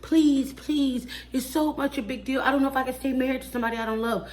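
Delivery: hammed-up pleading, tossing off the last line fast; mocking a pleading wife. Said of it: "she's like".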